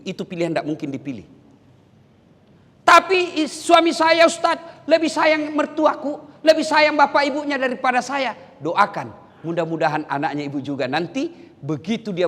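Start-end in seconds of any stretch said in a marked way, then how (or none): 2.8-8.3 higher, whiny grievance; mock a wife telling the cleric; lightly voiced jealous wife; complaining wife.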